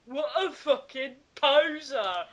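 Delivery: mock angry shout. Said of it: "Draco shouted angrily".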